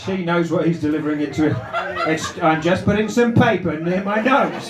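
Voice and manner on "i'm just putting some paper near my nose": a touch of mock innocence; innocent voice. Comic imitating the punter's excuse, mock innocent. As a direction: play it all innocent, lightly. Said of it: "An innocent response".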